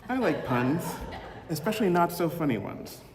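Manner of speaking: light teasing lift, laughing at own joke; playful mock pun intro. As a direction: sell the pun like a cheesy game-show host, giggling. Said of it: "I could have said something like".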